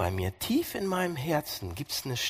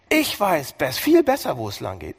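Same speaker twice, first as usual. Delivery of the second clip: mock arrogant claim; 4 dB louder than usual. Acting self-willed human.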